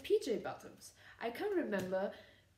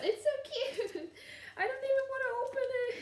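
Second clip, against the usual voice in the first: laughing delight; faster than usual. Real, not acted. Giggling over the cute gift.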